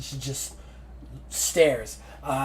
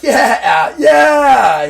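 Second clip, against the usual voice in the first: jubilant shouted yeahs, climbing higher; victory yell; 8 semitones higher, 12 dB louder than usual. Retold or imitated. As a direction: yell like you just got your first win. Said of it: "He's like".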